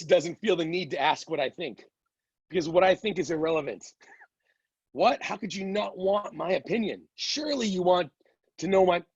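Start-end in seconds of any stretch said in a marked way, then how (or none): 4.9-9.0 lightly acted disbelief, pitched up a little; mock incredulity. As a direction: play at being baffled and a touch affronted. Acts out someone baffled by indifference.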